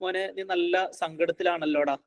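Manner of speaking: soft, caring demo; gentle comfort, as the better way; empathetic parent. Shown as a demonstration. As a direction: quietly acknowledge a child's sadness. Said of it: "എന്ന് പറയുന്നതിന് പകരം".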